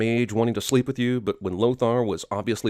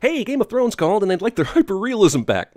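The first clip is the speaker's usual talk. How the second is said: laughing; 7 semitones higher, 5 dB louder than usual. Real, not acted. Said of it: "couldn't keep a straight face".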